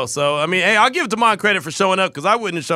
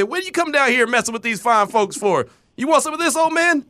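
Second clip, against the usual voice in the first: quoting Friday; 3 semitones higher than usual. Retold or imitated. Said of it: "I'm like in Friday when they say".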